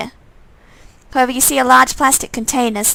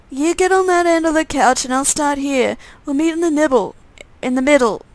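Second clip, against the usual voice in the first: irritated undead twin; 4 semitones higher than usual. Acted. Undead twin telling his brother he's pissed off, petulant. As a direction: explain the bond, then sulk.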